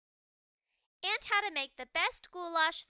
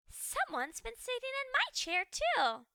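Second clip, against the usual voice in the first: higher mama ghost, stress on my; 9 semitones higher than usual. Acted. Ghost mother echoes the father, higher indignant voice.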